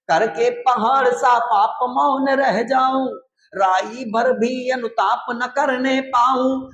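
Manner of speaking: slow, drawn-out verse recitation; poem recitation. Acted. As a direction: declaim the poem, stretching each line-ending. (धीमा, खिंचा हुआ कविता-पाठ)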